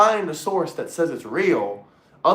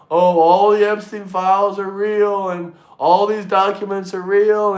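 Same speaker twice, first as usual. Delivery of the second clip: mocking the banned viewer; 5 dB louder than usual. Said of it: "if he starts talking about".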